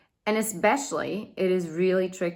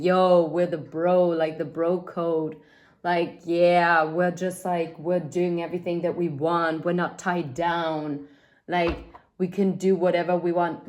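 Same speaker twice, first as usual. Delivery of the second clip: mock bro talk. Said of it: "This is why I'm saying".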